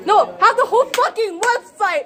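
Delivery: mock printer voice. Mock printer quote, laughing.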